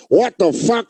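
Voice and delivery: a hint of a comic's incredulous outburst; Keith. Comic hearing a friend in his head, lightly imitated exasperation. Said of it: "hear Keith going".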